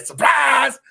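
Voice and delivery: sudden high, loud "Surprise!"; spring it like a jack-in-the-box; mock surprise. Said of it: "Death just sort of pops up like".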